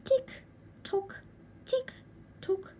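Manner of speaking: high, sing-song tick tock of a clock. Acted. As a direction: chime it like a nagging kitchen clock. Clock ticks again.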